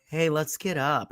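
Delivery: casual, unbothered imitation; nonchalant. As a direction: say it offhand, without any urgency. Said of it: "is just so nonchalant".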